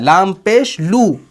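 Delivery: slow "लाम पेश लू", long final "लू"; pesh spelling demo. Shown as a demonstration. Teacher reminding what was read, slow "लाम पेश लू". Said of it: "आपने लू पढ़ा है".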